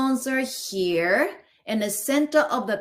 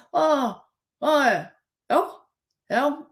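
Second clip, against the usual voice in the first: yearning sounds; 4 semitones higher, slower than usual. Shown as a demonstration. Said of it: "keep yearning".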